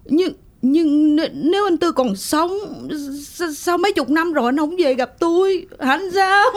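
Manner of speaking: tearful. Acted. Widow overwhelmed, husband maybe alive.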